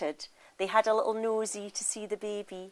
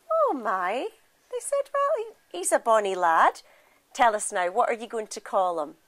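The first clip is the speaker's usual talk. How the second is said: put-on surprised old women; 5 dB louder than usual. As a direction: cover the shock with cheer. Old women see second baby.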